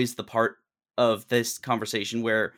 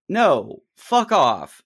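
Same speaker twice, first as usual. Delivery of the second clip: angry outburst; 6 semitones higher, 6 dB louder, much slower than usual. Real, not acted. Venting anger at "life is hard" advice.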